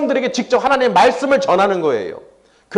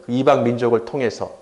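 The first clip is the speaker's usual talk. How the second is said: lower, steady voice of God declaring judgment; God's answer; 8 semitones lower than usual. Retold or imitated. Preacher voicing God's reply, calm pronouncement. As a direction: pronounce the verdict calmly as God. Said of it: "뭐라고 하십니까?".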